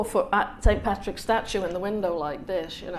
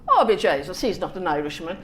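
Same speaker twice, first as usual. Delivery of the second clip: mock Irish; 2 semitones lower, 4 dB louder than usual. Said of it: "all the people are going".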